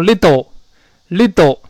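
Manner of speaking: little said with a hard, pushed t, the wrong way; forced t in little. Shown as a demonstration. Teacher showing the wrong way, forced little. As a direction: push the t in little too hard. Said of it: "这种浊化不能用力".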